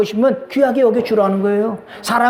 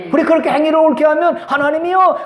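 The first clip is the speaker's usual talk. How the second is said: normal talking voice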